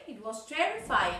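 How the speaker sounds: "terrifying" stressed, then falling; falling intonation. Shown as a demonstration. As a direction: land on "terrifying" with a falling tune. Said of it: "falling and rising intonation".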